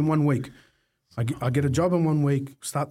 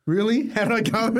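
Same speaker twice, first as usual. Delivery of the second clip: higher and louder incredulous retort; 8 semitones higher, 3 dB louder than usual. Retold or imitated. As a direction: throw it back at dad in disbelief. Sarcastic reply to dad.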